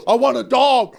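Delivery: hammed-up excited demand; retold excitement. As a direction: beg for it like an excited dog. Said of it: "I got excited".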